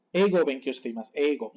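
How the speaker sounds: Eigo as "eh-go", long E; pure E in eigo, no glide; barely sounded I. Shown as a demonstration. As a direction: swallow the I in Eigo and shiteimasu. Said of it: "Muy poquito se pronuncia".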